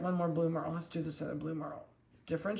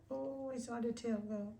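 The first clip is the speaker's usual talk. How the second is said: higher, delighted coo; light up at the wag, pitched up; 6 semitones higher, 5 dB quieter than usual. Real, not acted. Breeder cooing at the wagging puppy, delighted.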